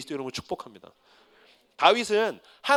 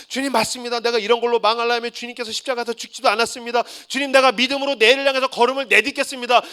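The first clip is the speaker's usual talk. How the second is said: resolving prayer; 2 semitones higher than usual. Retold or imitated. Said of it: "막 그러다가".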